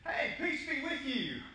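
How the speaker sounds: high, gentle greeting as Jesus. Acted. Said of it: "and he says".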